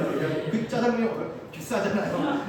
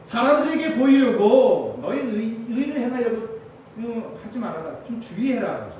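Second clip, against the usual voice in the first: normal talking voice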